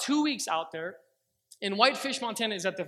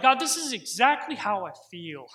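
raw, loud cry to God; yelling at God; 6 dB louder than usual. Retold or imitated. Driver pulled over, yelling at God in anguish, loud. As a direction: shout your hurt upward. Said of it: "I began yelling at the Lord".

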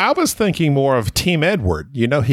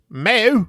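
put-on accented moo; 8 semitones higher than usual. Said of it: "what about this one?".

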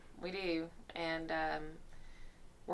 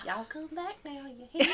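mock hillbilly goodbye; 7 semitones higher than usual. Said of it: "Yeah, Beverly Hillbillies".

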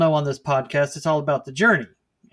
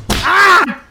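pained yelp; 13 semitones higher, 10 dB louder than usual. Acted. Hit again.

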